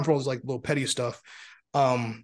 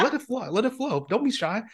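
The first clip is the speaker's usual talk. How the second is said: retold encouragement; 8 semitones higher than usual.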